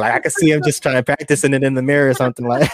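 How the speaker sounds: talking through laughter; amused, laughing along. Real, not acted. Laughing at a rapper practicing lines.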